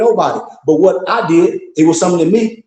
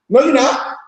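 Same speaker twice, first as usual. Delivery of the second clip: dismissive no; 7 semitones higher than usual. Real, not acted. Repeats refusal higher.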